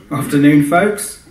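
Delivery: breezy hello from the cockpit; cheery pilot greeting. Acted. Pilot waves to the flat dwellers below, cheery call.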